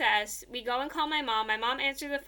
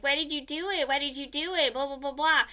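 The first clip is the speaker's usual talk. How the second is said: higher, pestering imitation of kids; lightly acted schoolyard teasing; mock teasing; 4 semitones higher than usual. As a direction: needle them like taunting classmates. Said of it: "teasing me about it".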